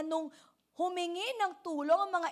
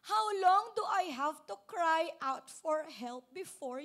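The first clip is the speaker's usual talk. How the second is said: crying out; 5 dB louder than usual. Acted. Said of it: "sabi niya doon".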